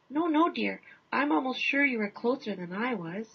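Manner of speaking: lightly voiced insisting husband; hint of a courteous Canadian husband; polite husband. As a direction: gently refuse the credit.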